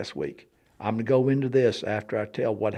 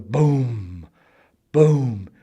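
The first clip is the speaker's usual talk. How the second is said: drawn-out boom of a shaking wall; imitated booming. Lady describes shaking walls, imitated booms. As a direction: boom it out long, letting it ring. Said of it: "when your walls shake, start going boom".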